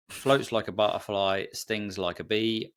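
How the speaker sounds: slow, measured recital of the boxing rhyme; Muhammad Ali quote. Retold or imitated. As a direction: recite it like a boxer's boast, lightly. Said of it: "You've gone all Muhammad Ali".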